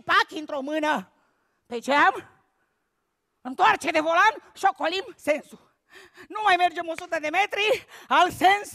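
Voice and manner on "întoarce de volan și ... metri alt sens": ordinary talk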